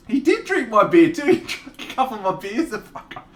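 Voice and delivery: high, loud mock outrage; a sudden high, loud complaint about the beers; indignant outburst. Real, not acted. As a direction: squawk it out, scandalised.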